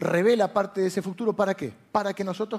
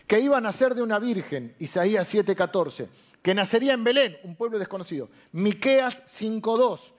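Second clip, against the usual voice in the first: proclaimed list reading; 3 semitones higher than usual. Acted. Preacher listing fulfilled prophecies to the congregation, proclaimed list reading. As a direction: read out each prophecy like a proclamation.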